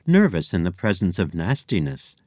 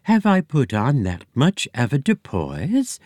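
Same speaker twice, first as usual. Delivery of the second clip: cooing, higher society-lady voice; fluty society lady; 5 semitones higher than usual. Acted. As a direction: coo it like a grand dame. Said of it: "In a fuller, fluty society lady's voice, she cooed".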